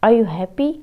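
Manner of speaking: "happy" rises at the end of the question; rising tone. Shown as a demonstration. Teacher showing students a question, rising tone. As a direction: lift the voice on "happy". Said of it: "Rising tone".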